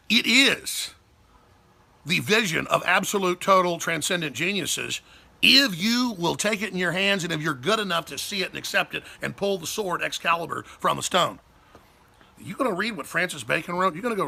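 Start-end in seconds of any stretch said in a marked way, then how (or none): 0.1-11.4 rousing oration. Real, not acted. Soaring oratory about the republic.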